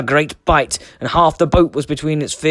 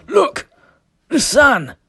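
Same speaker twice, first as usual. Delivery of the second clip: high, loud shout of discovery; excited cry; 13 semitones higher, 4 dB louder, much slower than usual. A narrator's reading. Sven calling his shipmates to look up, high excited cry. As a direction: call it out as you point up.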